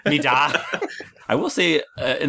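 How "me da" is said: Irish "me da". Shown as a demonstration. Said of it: "Just me saying "da".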